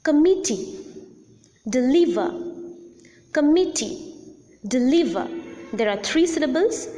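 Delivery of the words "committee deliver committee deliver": comMITtee, deLIVer, middle syllable punched; middle-syllable stress. Shown as a demonstration. Teacher gives three-syllable examples Committee, deliver, stressed on the middle syllable. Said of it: "the second or the middle syllable is the stressed".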